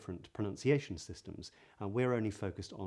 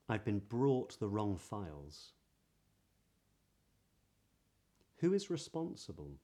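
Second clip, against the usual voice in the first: modern British accent. Shown as a demonstration. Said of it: "here are some sentences".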